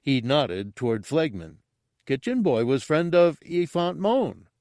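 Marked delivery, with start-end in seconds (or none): 2.0-4.5 high character voice, pleased with his theory; high-pitched dim sleuth; eager simpleton. Acted. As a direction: explain it proudly in a high voice. Gartog continues his muddled theory.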